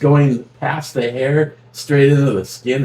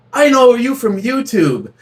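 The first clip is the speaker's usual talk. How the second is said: quoting the guy at the bar; 12 semitones higher, 4 dB louder than usual. Retold or imitated. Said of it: "he goes".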